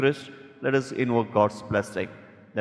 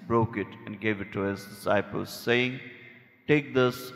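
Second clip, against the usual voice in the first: solemn, measured liturgical prayer. Acted. Priest praying the Eucharistic prayer.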